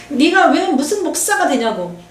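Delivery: imitating a scornful younger sister, slow; mocking sister. Sister scoffing at the preacher, mildly mock scornful. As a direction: sneer it like a sister looking down on you. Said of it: "셋째 동생이 이렇게 말했어요".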